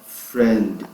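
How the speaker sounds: ordinary talk, nothing marked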